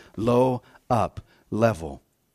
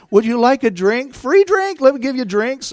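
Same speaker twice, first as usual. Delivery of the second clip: excited cashier; 13 semitones higher, 8 dB louder than usual. Retold or imitated. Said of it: "And she says".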